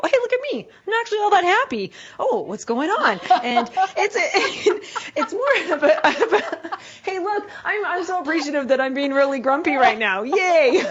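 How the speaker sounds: laughing at your own grumpiness, sing-song and bright; mock cheery self-talk. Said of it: "I go".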